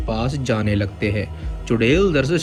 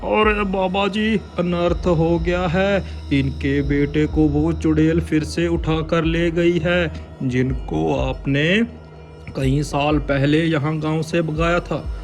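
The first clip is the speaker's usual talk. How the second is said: high worried plea; pleading villager; 6 semitones higher than usual. Acted. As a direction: beg the holy man. Pleading to baba. (विनती करता गांववाला)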